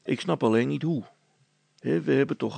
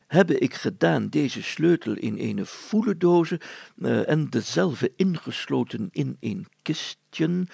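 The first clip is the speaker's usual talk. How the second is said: put-on reading old text; slower than usual. Reading old written clues aloud.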